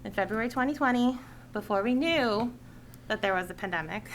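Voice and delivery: measured read-out public statement; prepared speech. Real, not acted. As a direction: deliver a written address to the committee. Reads a prepared committee speech.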